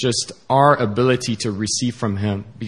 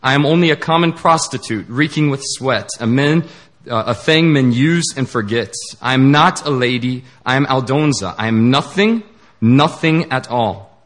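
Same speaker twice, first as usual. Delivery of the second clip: a hammed-up mild scream of shame; mild acted scream; 2 semitones higher than usual. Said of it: "she screams at him".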